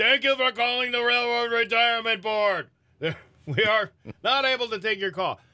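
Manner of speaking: put-on high, loud old man's voice. Speaker imitates an outgoing voicemail message, old man's voice. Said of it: "It's this old guy going".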